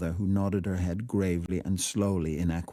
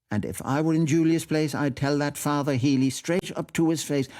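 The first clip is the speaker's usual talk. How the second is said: higher, lightly voiced indignant aunt; flustered aunt, pitched up, protesting; hasty protest; 6 semitones higher than usual. A narrator's reading. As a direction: hurry to disclaim, then build into indignation. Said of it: "and said hastily".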